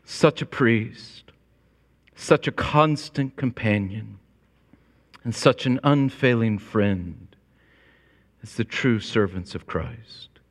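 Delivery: slow reverent quote. Retold or imitated. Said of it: "As J C Ryle said".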